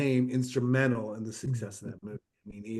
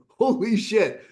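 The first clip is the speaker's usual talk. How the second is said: stunned exclamation; 9 semitones higher, 5 dB louder, slower than usual. Retold or imitated. Retold stunned reaction in story.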